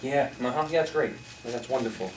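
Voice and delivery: absent, offhand uh-huh; distracted praise. Coach showing kids how dismissive praise sounds. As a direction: praise without listening. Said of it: "walking around like".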